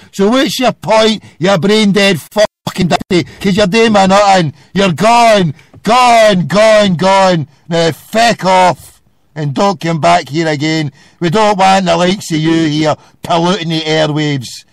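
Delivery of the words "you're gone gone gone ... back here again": loud, repeated banishing; real irate send-off, ending drawn out; angry dismissal. Real, not acted. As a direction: throw them off the line loudly. Angrily throwing the caller off.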